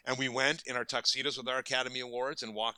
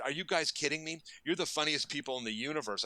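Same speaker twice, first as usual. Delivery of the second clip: retold delighted disbelief; 6 semitones higher than usual. Retells gushing reply to apology.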